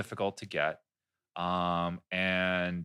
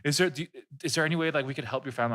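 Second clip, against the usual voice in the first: mock concern; 5 semitones higher, faster than usual. Gullible listeners react to fake story.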